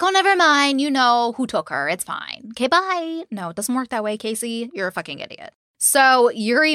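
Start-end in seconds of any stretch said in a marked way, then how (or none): 0.0-3.2 mock breezy dismissal. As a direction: toss it away with sarcastic cheer, as if nothing happened. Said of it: "They'd be like".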